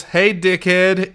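slow, drawn-out Australian "Hey, dickhead"; a mild imitation of a thick Australian accent. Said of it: "that thick Australian accent".

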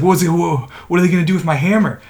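rushed, stammering worry; mock panicked kid. Kid worried about his hammer, panicked. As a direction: trip over the words, a touch panicked. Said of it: "like, really panicked".

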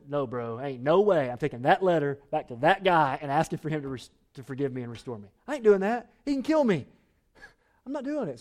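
lightly played panicky "no way"; mock refusal. Onesimus refusing to carry the letter back, half-joking panic. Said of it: "He could look to Paul and said".

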